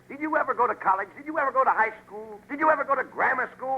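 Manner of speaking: scolding comic cross-examination; exasperated grilling. Acted. Straight man grilling his dim partner.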